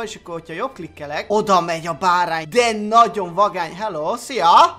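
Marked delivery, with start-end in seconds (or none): 3.7-4.8 slow, drawn-out friendly greeting; lightly voiced cow. Cow greeting the lamb, slow and friendly. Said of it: "Mondja a tehén".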